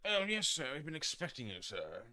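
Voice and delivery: high, loud, put-on clerk voice; hammed-up hotel clerk. Hotel clerk answering a guest's call, hammed-up. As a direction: overdo an eager servile welcome, starting high. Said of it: "didn't actually say it like that".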